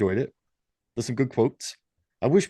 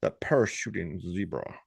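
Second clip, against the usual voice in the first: posh accent; 6 semitones lower, 5 dB quieter than usual. Shown as a demonstration. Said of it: "You can't be posh and say it".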